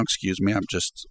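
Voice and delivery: talking through hiccups; interrupted by a hiccup. Real, not acted. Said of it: "I got the hiccups or something here".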